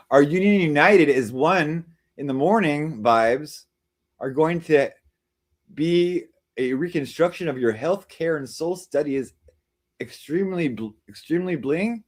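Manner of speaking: slow, halting reading of a garbled chat message; slow confused reading; stumbling read-aloud. Shown as a demonstration. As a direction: sound it out word by word as if puzzled. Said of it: "I don't think I read it right".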